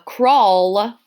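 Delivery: CRAWL with a clearly sounded ul ending. Shown as a demonstration. Teacher checking endings with pupils, ul sounded out. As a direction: draw out "crawl" onto its final L. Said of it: "does have an ul sound at the end".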